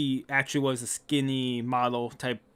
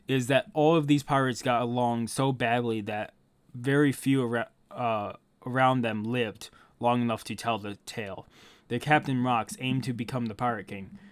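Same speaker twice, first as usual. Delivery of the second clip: story narration; 3 semitones lower than usual. Acted. Telling why few lived to tell the tale, subdued narration. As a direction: narrate it like grim history. Reads the history aloud.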